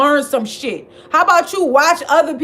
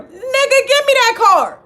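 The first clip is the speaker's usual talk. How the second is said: laughing outburst; 8 semitones higher than usual. Real, not acted. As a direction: burst out laughing as you demand it. Ranting at Kevin over food stamps.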